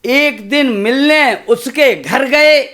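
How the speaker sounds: measured, rhythmic stage recitation of a poem. Acted. Poet reciting verse to a kavi sammelan crowd, rhythmic. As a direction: recite to the audience with a steady beat.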